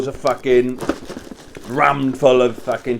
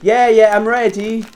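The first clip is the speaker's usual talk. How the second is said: faking normal; 8 semitones higher, 5 dB louder than usual. Retold or imitated. Faking normal to dad on phone.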